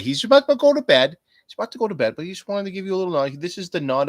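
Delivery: high, fast, teasing; high and quick, hammed up; mock narrating voice. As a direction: tease like telling a kid's bedtime story. Voicing someone going to bed.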